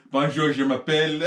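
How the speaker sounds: mock French introduction through laughter; playful French accent. Joking to co-host about the next language, playful French accent.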